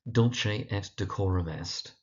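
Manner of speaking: Dulce et Decorum Est, stressing DUL and COR. Shown as a demonstration. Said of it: "Emphasis on the dul and the cor".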